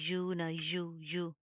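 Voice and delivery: यू said as an English-like glide, wrong; wrong yu sound. Shown as a demonstration. Teacher shows the wrong sound to avoid. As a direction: show the mistaken यू sound softly. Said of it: "ये sound पैदा नहीं करनी".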